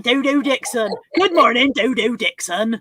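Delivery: hammed-up rural farmer accent; own accent exaggerated as a farmer's. Host teased about her accent greeting a viewer, mock farmer accent. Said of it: "In my accent, do I sound like that?".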